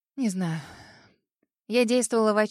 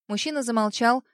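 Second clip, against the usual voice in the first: plain reading voice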